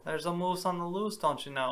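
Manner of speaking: put-on lightly echoed Canadian accent; mock Canadian accent. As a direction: playfully copy a Canadian accent, just a touch. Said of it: "I think that's Canadian".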